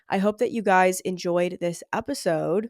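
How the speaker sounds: blocked nose from a sinus infection; nasal, stuffed-up voice; nasally voice. Real, not acted. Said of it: "I hope my nasally voice wasn't too much of a burden".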